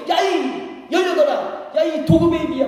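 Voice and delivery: high, drawn-out mock swearing; acted angry cursing. Preacher acting out a quarrel, high angry cursing. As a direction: act out a heated insult, pitched well up. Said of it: "화가 나고 열받아가지고 내가 하지 말아야 될 욕을".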